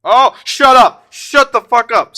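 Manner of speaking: real ecstatic shout, high and loud; stunned excitement. Real, not acted. Streamer reacting to pulling a rare card, stunned excited shout.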